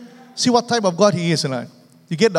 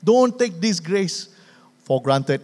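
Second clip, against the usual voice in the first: slow pleading; slower than usual. Retold or imitated. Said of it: "So Paul is pleading".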